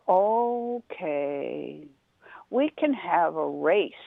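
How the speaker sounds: very slow, unbothered turtle; drawn-out and content, in no hurry; slow calm turtle. Acted. Turtle turning down Rabbit, very slow and calm.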